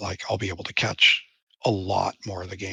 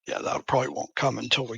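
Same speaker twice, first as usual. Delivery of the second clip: talking with a mouthful; words around a spoonful of cereal; eating cereal; 4 semitones higher than usual. Real, not acted. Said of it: "Sounds like you're eating cereal".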